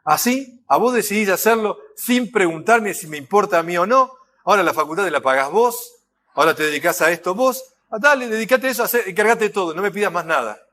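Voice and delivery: offended father lashing out at his daughter; angry father. Retold or imitated. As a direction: scold the daughter with hurt pride. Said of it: "este padre que dice".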